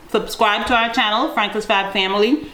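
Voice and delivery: chewing bread while talking; words round a mouthful; mouth full. Real, not acted. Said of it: "I'm so sorry, my mouth is full".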